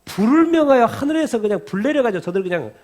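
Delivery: loud, high-pitched indignant plea; fired-up, hot-headed demand for vengeance; acted angry outburst. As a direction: act out disciples blowing up in anger. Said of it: "화가 확 나가지고 뭐라는 거예요".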